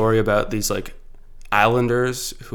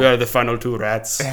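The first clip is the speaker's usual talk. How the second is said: lightly hammed-up villain line; evil villain accent; 4 dB louder than usual. Finishing the villain's rat speech for a friend, mock evil accent. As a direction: imitate a movie villain's punchline. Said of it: "in, like, a cool accent too".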